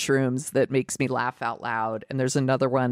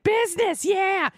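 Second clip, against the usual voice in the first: cartoon cat voice. Showing how the comedian's cats talk, high silly cat voice. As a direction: squeal it like an excitable dubbed cat. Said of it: "they all talk like this".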